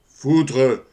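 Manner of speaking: loud theatrical curse; declaimed exclamation of exasperation; cry of despair. Acted. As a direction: burst out with the oath. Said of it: "un cri de, de désespoir".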